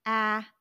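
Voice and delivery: loud, clipped short vowel sound ah; isolated phoneme Ah; sound segment ah. Shown as a demonstration. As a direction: tap out Ah as a single sound. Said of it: "they tap the sounds".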